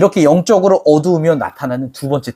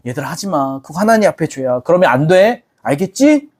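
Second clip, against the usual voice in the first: soft fatherly scolding. Retold or imitated. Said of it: "말하는 뉘앙스를 봐요".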